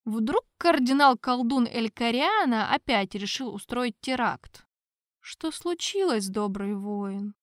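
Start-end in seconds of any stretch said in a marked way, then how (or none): 5.2-7.3 soft, slow and kindly; a pope's calm concern; gentle question. Acted. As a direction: ask the soldier gently. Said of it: "мягко спросил папа".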